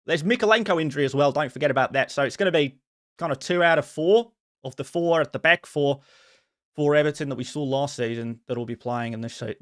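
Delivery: put-on Australian accent; casual football talk with Australian vowels. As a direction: chat away in an Aussie accent. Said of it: "your Australian accent is actually decent".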